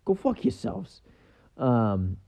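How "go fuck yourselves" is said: slow, sly imitation of the detective; smirking punchline. Podcaster retelling the movie joke, sly punchline. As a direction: deliver it with a smug half-grin. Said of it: "that's a good joke".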